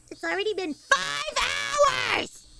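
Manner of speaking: slow, exasperated shout; drawn-out exasperated yell about the long stream; mock outrage. Real, not acted. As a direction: stretch the complaint out at chat. Exasperated complaint to chat.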